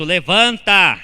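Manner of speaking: loud, firm command to rise; commanding call. Acted. God calling the dead man to rise, loud and firm.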